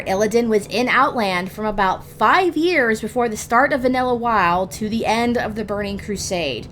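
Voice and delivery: ordinary delivery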